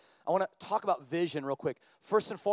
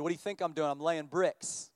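sarcastic annoyance. Retold or imitated. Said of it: "really sarcastically annoyed".

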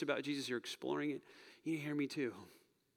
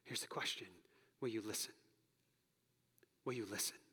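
hushed question; 3 semitones lower, 7 dB quieter than usual. Real, not acted. Quiet final question.

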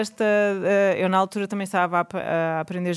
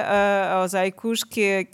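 ordinary talk, nothing marked

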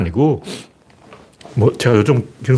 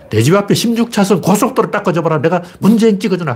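imitating a riled-up local, pitch raised; hammed-up Gyeongsang grumble, higher; mock angry rant; 5 semitones higher than usual. Retelling a Gyeongsang man venting at him, mock angry. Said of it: "그러고 막 핏대를 올리는 거야".

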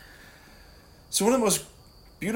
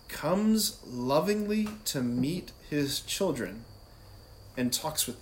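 slow reverent reading; slower than usual. Acted. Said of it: "it says this".

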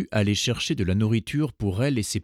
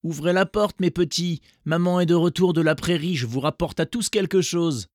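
gentle voice; 8 semitones higher, 5 dB louder than usual. A narrator's reading. Wolf at the door faking a gentle mother voice. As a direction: lure them in sweetly. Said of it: "dit d'une voix douce".

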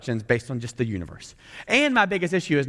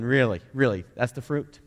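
snarky Satan; 2 semitones lower than usual. Retold or imitated. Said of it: "Satan going".

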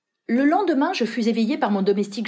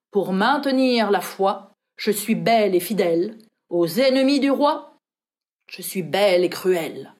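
recited quatrain. A narrator's reading. Narrator reading the arquebus inscription, measured recital. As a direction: lightly declaim the inscription.

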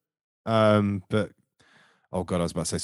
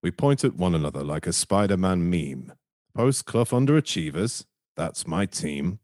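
slow, measured voiceover read; slower than usual. Shown as a demonstration. Host reading a listener's poem on the show, in voiceover voice. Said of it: "I'll put my best, um, voiceover voice".

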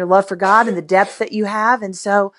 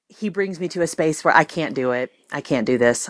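low, soft, moved confession; quietly overcome, voice dropping low; holding back tears; 4 semitones lower, 5 dB quieter than usual. Real, not acted. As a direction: admit helplessness, close to tears. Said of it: "I'm trying not to cry".

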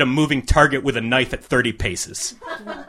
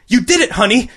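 much higher, excited mother; proud mom yelling; 9 semitones higher than usual. A narrator's reading. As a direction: cheer for your son like a proud mom. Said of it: "she yelled".

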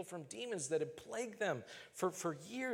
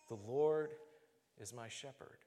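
hushed repeated mantra; repeated quiet prayer; 5 semitones lower, 3 dB quieter than usual. Retold or imitated. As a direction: murmur it again like a mantra, trailing off. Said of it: "I would pray those words".

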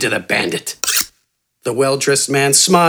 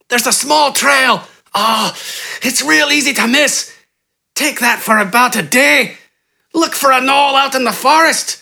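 high, gasping, desperate pleading; pained pleading bandit; 11 semitones higher than usual. A narrator's reading. Kneecapped bandit giving up the camp, high gasping plea. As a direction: beg through the pain, high and breathless. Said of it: "spoke between pained gasps".

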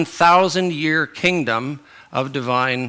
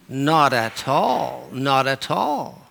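put-on British accent; much slower than usual. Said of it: "a touch of a British accent".

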